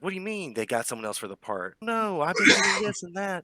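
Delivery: mock argument down the phone, voice climbing; arguing on phone. GM voicing Justice arguing with his agent on a call. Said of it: "you can hear him arguing".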